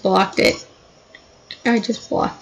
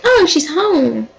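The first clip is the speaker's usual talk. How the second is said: high, drawn-out exclamation; mock excitement; 6 semitones higher, slower than usual. Boyfriend hears his girlfriend come in, mock excited. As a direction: stretch it out high, swooping up and down. Acting out boyfriend hearing her return.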